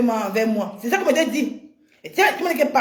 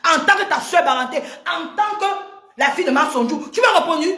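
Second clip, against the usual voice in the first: angry shout; 4 semitones higher than usual. Real, not acted. Quarrel, calling out Baranté sister.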